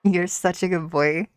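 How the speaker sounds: put-on a light Scottish accent, praising the dog; praising Parker the dog in a shaky Scottish accent. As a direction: try the good boy line in Scottish. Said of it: "Could I do a good boy in a Scottish accent?".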